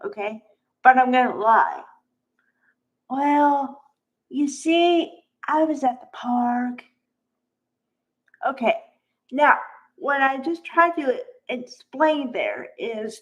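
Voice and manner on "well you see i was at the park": voice petering out, tapering off at the end. Example of a made-up lie about where you were: voice fading quieter. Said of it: "when you're lying, something happens called fading facts. And all that means is your voice gets quieter".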